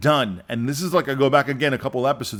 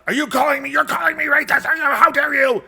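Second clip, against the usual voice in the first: high-pitched imitation of outraged sputtering; mock apoplectic; 11 semitones higher than usual. Congressman arguing with a colleague, mock apoplectic. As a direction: mimic an indignant congressman blowing up. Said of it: "he just got apoplectic over this".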